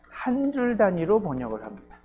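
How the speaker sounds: 한 줄 단위로 lifted high, then falling; stress on 한 줄 단위로. Real, not acted. Interpreter contrasted with all-at-once translation. (한 줄 단위로를 높여서 강조)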